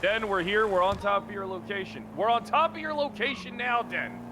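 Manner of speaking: calling out. Acted. Calling out to Den on arrival.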